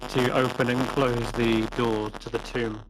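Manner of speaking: choppy, robotic mic. Real, not acted. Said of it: "your mic is roboting".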